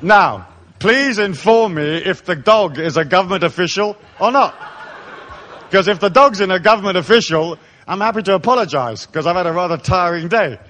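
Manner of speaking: deliberate, sarcastically courteous inquiry; over-enunciated, elaborately polite protest; mock-polite. Traveller answering a customs officer about his dog, mock-polite.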